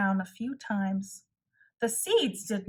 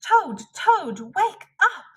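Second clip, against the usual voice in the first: loud call, higher, to wake a sleeper; 8 semitones higher, 6 dB louder than usual. Acted. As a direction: rouse Toad with a loud high call. Frog calling sleeping Toad.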